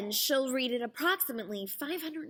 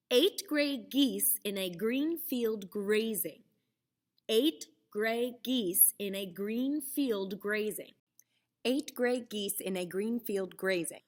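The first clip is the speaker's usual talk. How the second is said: slow tongue twister. Shown as a demonstration. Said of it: "One more".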